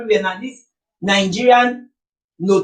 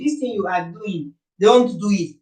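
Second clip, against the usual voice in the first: put-on mild childish scolding. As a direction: lightly imitate a mother's feeble scolding. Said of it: "will only say in a childish way".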